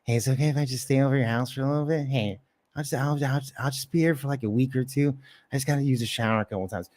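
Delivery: a quick, soft imitation of someone wheedling to stay over; mock mooching, words tumbling out; pleading freeloader. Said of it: "He's like".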